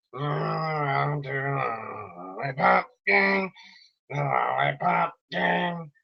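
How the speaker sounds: tough, groggy radio-host voice, lightly done; a hint of Alex Jones-style tough grogginess. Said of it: "do that in a tough, like, kinda, like, groggy voice like his".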